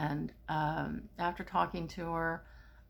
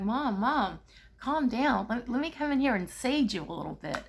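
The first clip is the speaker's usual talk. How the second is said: higher and louder, urgently soothing; urgent calming; 6 semitones higher, 5 dB louder than usual. Retold or imitated. Calming her panicking mother in the dream, higher and louder. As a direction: raise your voice to settle her down.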